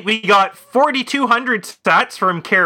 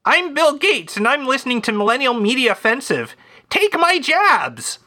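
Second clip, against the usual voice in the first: a hint of Bill Gates, pitched higher; Bill Gates impression; 5 semitones higher than usual. Host voicing Bill Gates for a listener's podcast shout-out, lightly mocking. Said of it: "How about this?".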